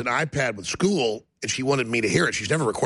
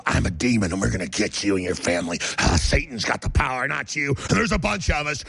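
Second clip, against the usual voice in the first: mock demon-possessed person; 2 semitones lower than usual. Host retelling strangers' threats in stores, lightly voiced demon. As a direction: imitate a menacing demon, not in full earnest. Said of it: "and just go".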